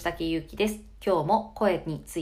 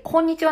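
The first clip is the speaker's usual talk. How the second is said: 「こんにちは」 quoted loud, sinking at the end; dipping tone; 7 semitones higher, 8 dB louder, faster than usual. Shown as a demonstration. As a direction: let 「こんにちは」 drop down. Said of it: "のところがちょっと下がってます". (「こんにちは」を下げて言う)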